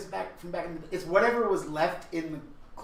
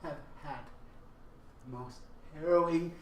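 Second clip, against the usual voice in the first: mock distraught; 4 semitones lower, 11 dB quieter than usual. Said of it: "I will burst into tears".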